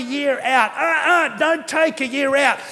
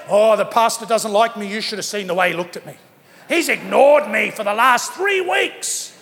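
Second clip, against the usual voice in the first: mock sulky congregant; 4 semitones lower than usual. Pastor mocking a congregant who feels ignored, whiny mock complaint. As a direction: ham up a hurt churchgoer's complaint.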